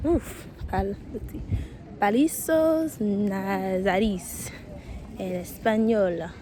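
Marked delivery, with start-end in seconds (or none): 2.0-4.5 slow, careful mock Italian accent. Vlogger jokingly names the palace in a mock Italian accent. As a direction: drag it out in a playful Italian accent. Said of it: "I said that with Italian accent".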